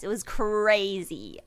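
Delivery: slow whispered aside; whispering. Real, not acted. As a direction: breathe it to the viewers, slowly. Aside to viewers.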